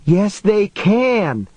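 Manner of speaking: high, drawn-out frightened retort; shouting back. A narrator's reading. Frightened woman arguing back at man in truck, shouting. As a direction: contradict him in a high, slow cry. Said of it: "she shouted back".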